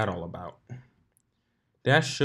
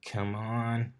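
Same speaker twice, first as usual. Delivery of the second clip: purring; 4 dB quieter than usual. Acted. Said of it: "the voice purred".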